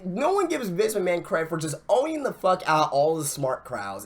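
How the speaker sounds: ordinary talk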